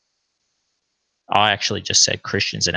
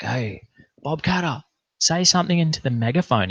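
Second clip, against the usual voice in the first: shouting higher, fast, through a megaphone; megaphone call; 6 semitones higher than usual. Retold or imitated. Mates at a rally call to Bob Katter through a megaphone, higher and fast. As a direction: hail the politician over the megaphone, quicker.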